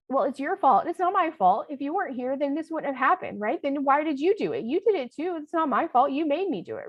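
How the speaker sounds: put-on high, loud blaming kid; squabbling child voice. Shown as a demonstration. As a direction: throw the blame back like a child. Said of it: "respond in a child voice".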